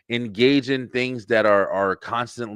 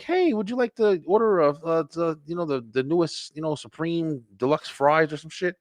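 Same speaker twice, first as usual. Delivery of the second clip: higher, chirpy mock recording voice; recorded drive-thru voice; 6 semitones higher than usual. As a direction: imitate a canned order-taking message. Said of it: "maybe it was just like a recording".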